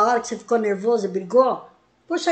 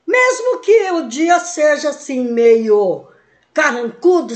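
usual speaking voice

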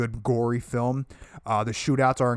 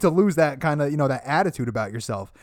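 mock stern lecture; 5 semitones higher, 4 dB louder than usual. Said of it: "He's like".

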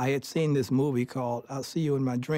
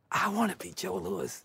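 put-on childlike wish; 5 semitones higher than usual. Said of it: "to my mother and father".

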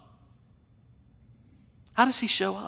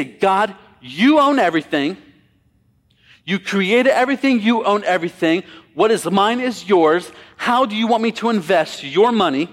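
louder, emphatic address to God; earnest prayer declaration; 3 semitones higher, 4 dB louder than usual. Acted. Acting out a congregation's prayer.

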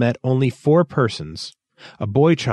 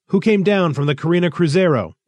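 high, urgent question; anxious call; 8 semitones higher, 4 dB louder than usual. A narrator's reading. Thistle asking Rolver about the arrival, anxiously. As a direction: ask anxiously in a raised pitch. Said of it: "Thistle called out anxiously".

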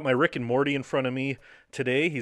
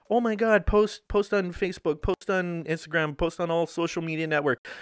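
mocking fake fans; 4 semitones higher than usual. Mocking fake fans' posts.

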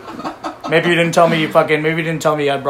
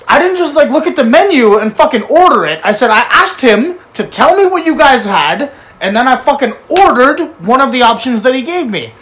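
retold anger; 6 semitones higher, 5 dB louder than usual. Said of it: "And I said".

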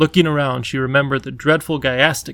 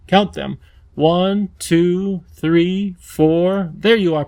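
put-on higher, gentle, coaxing girl voice; coaxing young girl; 3 semitones higher than usual. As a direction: talk him across, soothing and eager. Lindy counting steps.

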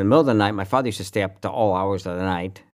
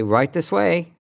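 Satan voice; 8 semitones higher, 4 dB louder, slower than usual. Pretend. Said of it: "Satan should say".

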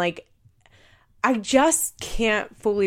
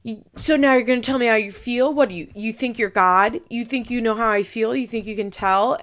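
mock angry yell, a bit higher and louder; retold yelling; 3 semitones higher, 4 dB louder than usual. Butch yelling at Tyler, imitated as a mild mock yell. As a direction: fire the accusations back at him, half-acted. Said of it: "Butch starts yelling".

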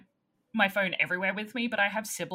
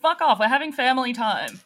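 loud annoyed yell through door; shouting at trespasser; 4 semitones higher, 7 dB louder than usual. Pretend. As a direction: tell the intruder to get lost. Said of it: "yell through the peephole".

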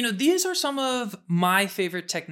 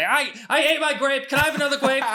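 put-on high, loud child begging for more; goofy kid voice; 9 semitones higher, 6 dB louder, faster than usual. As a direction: play a silly kid asking for another grape. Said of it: "will goop around, be".

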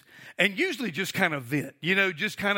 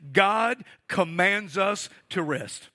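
slow dictation; slower than usual. Shown as a demonstration. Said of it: "you just may want to write this little phrase".

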